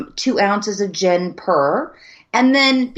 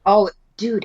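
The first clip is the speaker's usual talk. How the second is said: ordinary delivery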